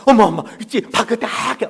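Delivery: loud, high repeated "mom, mom"; excited child calling. Acted. A child calling mom about the manna again. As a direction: call out breathlessly again.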